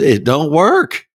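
high, slowed mock yell; retold yelling. Converts in the crowd joining in, mock yelling. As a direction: draw it out high, rising at the end. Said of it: "screaming out loud with me".

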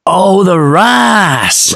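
very slow, high, drawn-out Southern realization; Southern drawl. Retold or imitated. Shop lady finally understanding him, drawled Southern. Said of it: "until she said".

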